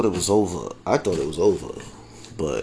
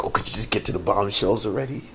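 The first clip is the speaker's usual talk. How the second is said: mock impatience; faster than usual. Voices impatient viewers, laughing.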